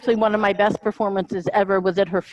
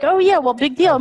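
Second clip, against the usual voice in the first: higher-pitched mock scoff; dismissive boast; 6 semitones higher, 3 dB louder than usual. Husbands scoffing at a man bragging about his wife, mock dismissive. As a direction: brush it off in an exaggerated, imitated scoff. Acted scoffing quote of other people.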